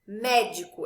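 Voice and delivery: "Médico" with a strong MÉ; stress on the first syllable. Shown as a demonstration. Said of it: "eu não falo médico nem médico".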